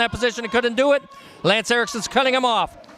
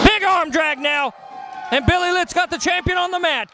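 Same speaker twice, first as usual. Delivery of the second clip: excited; 5 semitones higher than usual. Acted. Calls a big move.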